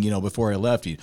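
usual speaking voice

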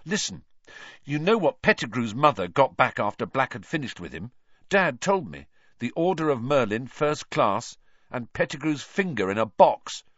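heated, high-pitched argument; furious. A narrator's reading. Ron warning Harry that Black is dangerous, furious. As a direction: press the warning home urgently. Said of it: "said Ron furiously".

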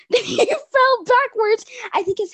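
barely holding back the giggles; laughing while telling. Real, not acted. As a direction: burst out with it, half laughing.

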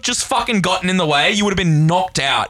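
mock-tearful outrage at the woman he saved; retold outrage. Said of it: "And I was like".

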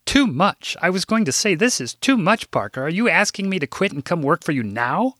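a mild hint of a prim, fussy secretary; lightly played prim office manager; older secretary. Narrator voices Rose.

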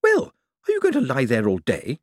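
put-on high, impatient old-lady snap; snappish. Old lady prods the fallen visitor, snappish. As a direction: snap it as a feisty old woman. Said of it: "she snapped".

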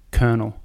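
Colonel said as "kernel"; correct pronunciation. Shown as a demonstration. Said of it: "how to say it".

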